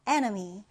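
"Enemy" stressed on EN; stress on first syllable. Shown as a demonstration. Teacher introducing the next word, "Enemy" stressed on EN. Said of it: "첫 음절의 강세를 두고요".

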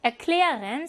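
"erklären" stressed on "klä"; light "er", strong second syllable in "erklären"; stress after prefix. Shown as a demonstration. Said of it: "비분리전철 에어 다음에".

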